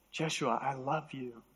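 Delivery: soft, tender imitated voice of God; God's loving voice. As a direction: say it quietly, as a loving father to his son. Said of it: "I'd hear God say".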